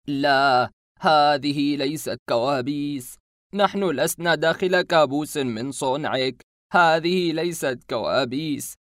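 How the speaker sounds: slow, loud frightened pleading; trembling voice. Acted. Cornered masked man pleads in a frightened trembling voice. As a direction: plead slowly, shaken with fear. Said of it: "بصوت مرتعش".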